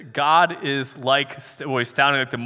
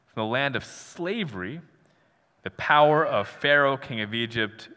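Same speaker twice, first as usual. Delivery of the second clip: scripture reading; 2 semitones lower than usual. Acted. Rereads the scripture.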